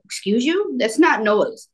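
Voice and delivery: mock-offended teen retort; retold indignation. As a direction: answer mom back, affronted.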